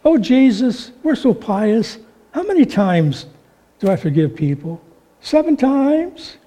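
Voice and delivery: milk the question like a pious show-off; a hint of whiny holiness; pious whine. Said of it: "in a very pious voice, a little whine to it".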